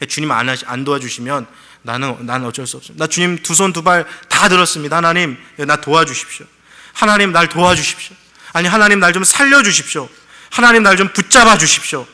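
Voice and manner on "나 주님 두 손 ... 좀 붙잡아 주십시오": rising to a loud, higher plea; a broken man begging God to hold him; desperate prayer. Acted. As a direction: cry out to God for rescue.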